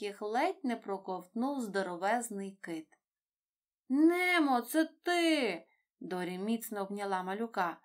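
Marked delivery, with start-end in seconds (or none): 3.9-5.7 higher and louder, overjoyed cry; light up with delight at finding him; excited recognition. A narrator's reading. Dori overjoyed to find Nemo at last.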